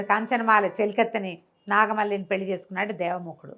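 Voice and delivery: usual speaking voice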